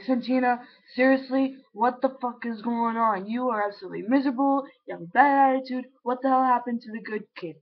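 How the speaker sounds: lightly acted fed-up parent; mildly exasperated mom. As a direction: imitate a mom's exasperated telling-off. Mom confronts them in retold quote.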